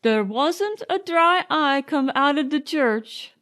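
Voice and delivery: put-on gruff old servant gossiping; old coachman Burns. A narrator's reading. Burns telling Nanny about the funeral, lightly voiced old man. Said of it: "said Burns".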